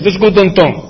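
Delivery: downtown said as "don-ton"; Nuyorican pronunciation. Shown as a demonstration. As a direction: say "Let's go downtown" with downtown flattened to "donton". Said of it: "¿qué yo estoy diciendo?".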